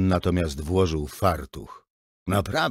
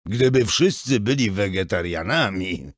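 mocking, sarcastic repeat of the boy's words; mocking echo; 3 semitones higher, 5 dB louder than usual. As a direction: parrot him back with scorn. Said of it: "przedrzeźniałem go". (przedrzeźniając, drwiąco)

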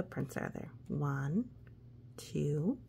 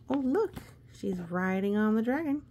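surprised; 4 semitones higher, 4 dB louder, faster than usual. Real, not acted. Spotting picture with child.

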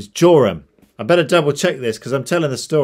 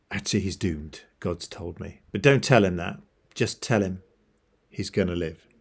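lightly played confidential aside, softer and lower; narrator's voice aside; 3 semitones lower, 5 dB quieter than usual. Prophet privately telling the servant the truth, in a narrator's voice. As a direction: drop into an understated narrator's aside. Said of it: "He says, narrator's voice".

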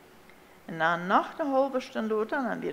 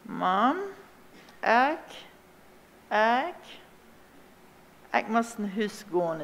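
friendly; 2 semitones higher, slower than usual. A narrator's reading. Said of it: "Dan zei hij ganz vriendelijk".

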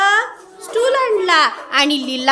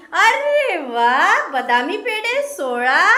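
Leela delighted; slower than usual. Acted. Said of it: "मग लीला काय म्हणाली?".

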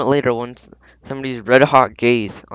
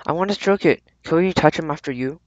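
high, gushing plea; eager squeal; 5 semitones higher than usual. Acted. Girl begging the owner to pet the cat, eager squeal. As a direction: beg in a high girlish squeal.

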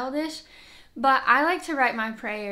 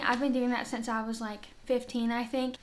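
breathless, winded talk; out of breath; 4 dB quieter than usual. Real, not acted. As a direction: speak short of breath, pregnant. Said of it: "I'm out of breath".

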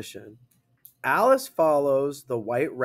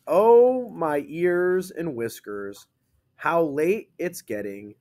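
louder, slow, surprised cry of "Oh"; excited rabbit; 3 semitones higher, 3 dB louder, slower than usual. Shown as a demonstration. Teacher reading the rabbit's line to class, excited. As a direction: read it like a flustered rabbit. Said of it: "You read it like that because it's excite".

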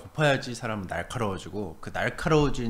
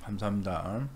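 speaking between sandwich bites; talking while chewing; 2 semitones higher than usual. Real, not acted. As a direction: mouth partly full of food. Seen 0: Sandwich held at mouth, jaw chewing between bites throughout.

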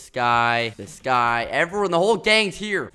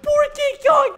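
much higher, laughing mock pity; 5 dB louder than usual. Real, not acted. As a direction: giggle out the sympathy. King Kong missed again.

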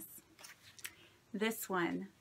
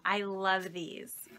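slow, hushed whisper of delight; 4 semitones lower, slower than usual. Real, not acted. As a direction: whisper it as if to yourself. Admiring die cuts from friend.

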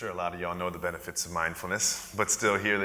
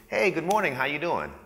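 higher-pitched imitated cheery hello; friendly greeting; 7 semitones higher than usual. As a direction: greet the kid brightly, lightly acted. Staff member's friendly hallway greeting acted out.

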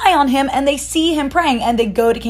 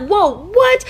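higher, laughing disbelief; amazed; 8 semitones higher, 3 dB louder than usual. Acted. King finds Daniel alive.

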